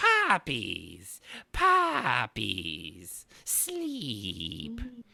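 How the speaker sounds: sing-song voice with pitch swooping up and down. Joking about poppies putting people to sleep: sounding like the Chamberlain from Dark Crystal. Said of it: "You sound like the Chamberlain out of".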